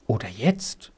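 soft, low rising question; hesitant question. A narrator's reading. Children silently prompting each other.

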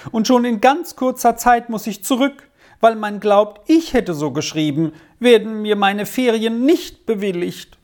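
put-on a touch of a despairing boy; lamenting boy. A narrator's reading. Arthur pours out his fears to Squirrel, mild lament. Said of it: "jammerte Arthur".

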